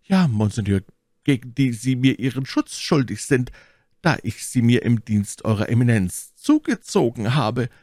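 high, theatrical Milady voice; high, formal courtly request; scheming lady petitioner. A narrator's reading.

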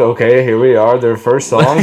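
mock sports commentary. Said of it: "like, an announcer".

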